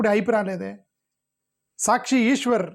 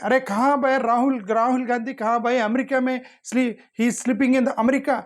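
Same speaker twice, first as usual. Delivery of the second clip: imitating a TV anchor's higher-pitched, drawn-out taunt; mock an attacking debate host, pitched up; Arnab Goswami; 4 semitones higher than usual. Anchor going after an opposition leader on air, mock attacking voice. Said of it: "అట్లా మాట్లాడతాడు రాహుల్ గాంధీ మీద".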